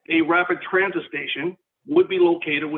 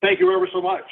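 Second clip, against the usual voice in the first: phone speaker. Real, not acted. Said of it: "Can you hear me on my speaker?".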